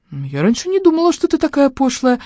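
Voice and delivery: high giggly teasing; giggling. Acted. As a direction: tease her through giggles. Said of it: "захихикала я".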